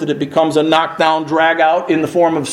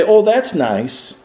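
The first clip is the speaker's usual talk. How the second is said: dismissive shrug; 3 semitones higher, slower than usual. Retold or imitated. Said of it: "not for you to read and say".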